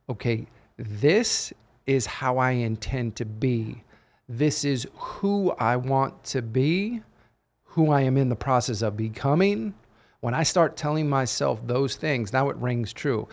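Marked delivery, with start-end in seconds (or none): 0.1-9.7 calm self-affirmation. Retold or imitated. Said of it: "telling yourself".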